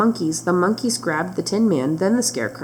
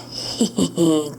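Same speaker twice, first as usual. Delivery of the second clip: witch cackle; 3 semitones lower than usual. A narrator's reading. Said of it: "cackled the witch".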